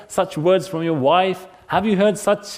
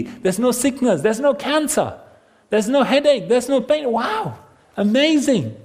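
higher-pitched, marvelling list; delighted wonder; 5 semitones higher than usual. Acted. Preacher imagines a world without pain, delighted wonder. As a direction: build the wishes up into awe.

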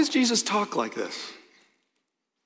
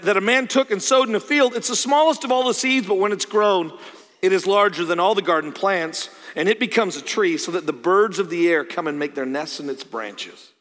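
raised, emphatic parable reading; scripture reading; 2 semitones higher, 3 dB louder than usual. Acted. Preacher reads the seed parable to the congregation, emphatic scripture reading. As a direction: read it out with energy, easing at the end.

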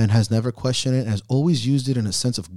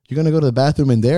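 quick teasing question; 3 semitones higher, 4 dB louder, faster than usual. Retold or imitated. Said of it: "I go".

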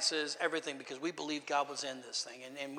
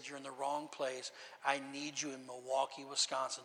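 God speaking plainly; 5 dB quieter than usual. Retold or imitated. God telling the pastor where he is needed, quiet and direct. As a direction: say it softly and matter-of-factly, as a settled instruction. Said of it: "just like that".

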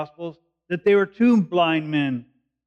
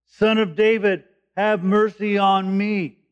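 crying out; 4 semitones higher than usual. Acted. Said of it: "he kept crying out all the more".

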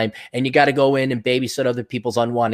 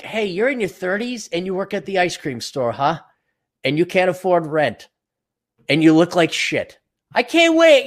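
gloating taunt; 4 semitones higher than usual. Retold or imitated. Speaker taunting a broke ice cream worker, high gloating. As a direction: rub it in gleefully.

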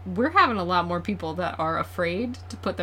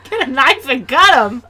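laughing mock; 6 semitones higher, 7 dB louder than usual. Repeating knife joke laughing.

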